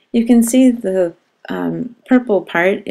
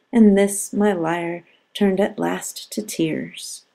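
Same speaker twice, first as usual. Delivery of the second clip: poem reading. Shown as a demonstration. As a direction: let the last line sink into tears, slowing. Reads the sestet aloud.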